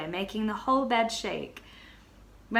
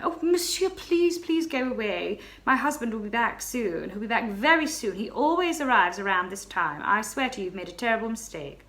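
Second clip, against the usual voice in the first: begging; 2 semitones higher than usual. Acted. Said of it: "I started to beg again".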